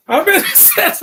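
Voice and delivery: very high, loud laughing squeal; imitating a high, yelped plea; mimicked protest. Laughingly quotes a movie line.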